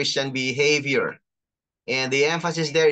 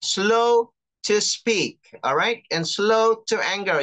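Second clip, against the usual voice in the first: reading scripture; 5 semitones higher than usual. Shown as a demonstration. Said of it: "This is James one nineteen".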